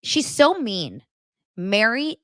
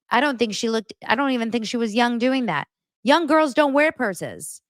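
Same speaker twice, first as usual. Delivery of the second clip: higher, snooty imitation of Mary; mock Mary; 6 semitones higher than usual. Recapper imitating Mary mocking the bread story. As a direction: sneer it like a catty rich lady.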